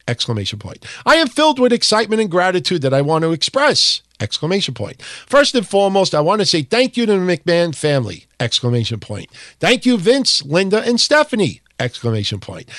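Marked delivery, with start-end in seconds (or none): 1.1-4.0 higher, every line ending like an exclamation mark; exclamatory reading. Shown as a demonstration. Host reading the wrestler's farewell post aloud, with exclamation-point gusto. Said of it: "We gotta include the exclamation points". 5.3-11.6 1 exclamatory reading. Shown as a demonstration. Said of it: "We gotta include the exclamation points".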